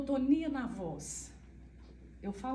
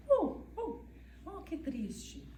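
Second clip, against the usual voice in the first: lightly swooping ohs, then slow and soft; a half-hearted show of emotional ups and downs; mock expressive tone; 4 dB quieter, slower than usual. Shown as a demonstration. Mother showing the emotional tune autistic speech lacks, mild mock. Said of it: "que não faz esse".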